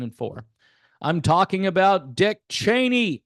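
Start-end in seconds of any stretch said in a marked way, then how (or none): 2.1-3.2 Dick given deliberate emphasis in the name. Shown as a demonstration. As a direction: lean on the word Dick. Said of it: "Put the emphasis on the word Dick".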